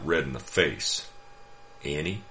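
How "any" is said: sweetly. Acted. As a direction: ask sweetly, feigning innocence. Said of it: "Teddy asked again, sweetly".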